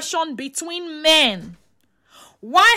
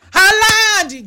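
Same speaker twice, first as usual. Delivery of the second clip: Haaland called out louder with a bright burst of recall; excited shout of relief; 4 semitones higher, 6 dB louder than usual. Real, not acted. Remembering the footballer's name, excited call. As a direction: snap the name out like it just came back.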